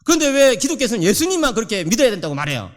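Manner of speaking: mock indignant child's complaint; arguing child. Preacher acts out his son protesting unfairness, mildly indignant. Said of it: "막 이러면서 막 따지는 거예요".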